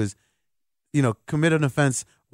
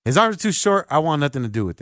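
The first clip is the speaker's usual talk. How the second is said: mocking parrot. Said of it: "You're like".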